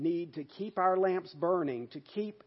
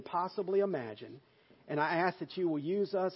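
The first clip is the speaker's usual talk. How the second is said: earnest pastor's prayer, steady and full; closing prayer; 3 dB louder than usual. Acted. Pastor praying for his church in earnest prayer voice. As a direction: pray over the congregation with conviction.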